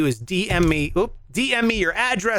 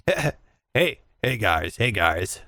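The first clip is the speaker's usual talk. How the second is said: much lower, laid-back marshal voice; impression of Pike; 3 semitones lower than usual. Host mimics cohost warning golfers from the cart, low and lazy. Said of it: "Did I nail it?".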